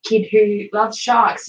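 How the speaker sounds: mock blurb voice. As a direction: read it like a pushy catalogue ad. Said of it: "you read the blurb of the room and it's like".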